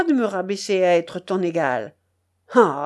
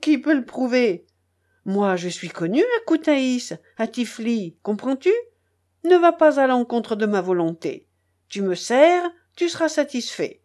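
angry harangue; 3 semitones higher than usual. Acted. Charcot harangues the narrator in the rain, indignant and raised. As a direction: pour out all his pent-up resentment. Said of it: "me demanda-t-il avec colère".

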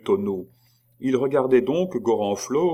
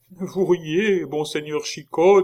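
timid hope; 8 semitones higher, 4 dB louder than usual. A narrator's reading. Monk hopeful after Chicot laughs.

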